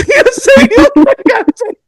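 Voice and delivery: squeaky high laughing line; words squeezed through laughter; cracking up at his own bathroom story; laughing hard. Real, not acted.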